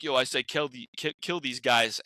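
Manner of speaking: lightly voiced Stallone, slowing on the kill; a hint of Stallone, slowed down; faint Stallone voice quoting the line. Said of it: "he did it in the Stallone voice".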